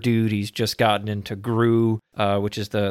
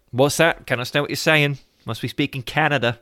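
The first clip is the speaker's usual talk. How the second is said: Ali G mocking; 4 semitones higher than usual. Retelling the skit, Ali G mocking Canadian English. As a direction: play dumb as Ali G, hammed-up. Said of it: "He's like".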